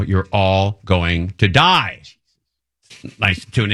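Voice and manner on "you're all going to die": mock doom warning. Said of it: "ominous warning to listeners".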